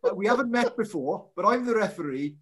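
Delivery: lightly put-on Welsh referee accent; Nigel Owens accent. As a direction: imitate a referee's accent, slowing at the end. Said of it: "in your best Owens accent".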